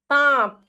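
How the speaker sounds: सांप with a held nasal आ; careful dictation of सांप; nasalised vowel. Shown as a demonstration. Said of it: "आप बोल के देखेंगे".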